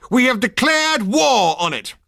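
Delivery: high, slow, loud triumphant shout; proud shout. Acted. Soldier announcing war to the cheering crowd, shouting. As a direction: proclaim it to the whole crowd.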